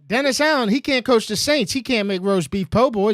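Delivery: ведущий громко и весело разносит тренера; loud excited riff. Real, not acted. Host riffs loudly on the coach.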